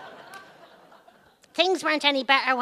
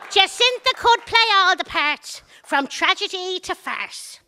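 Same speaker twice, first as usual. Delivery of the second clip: 1 excited; 7 semitones higher, 5 dB louder than usual. Acted. Comic monologue high-energy punchline.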